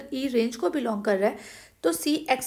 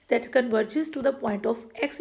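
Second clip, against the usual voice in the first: slow dictation; much slower than usual. Shown as a demonstration. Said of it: "dictating conclusion slowly".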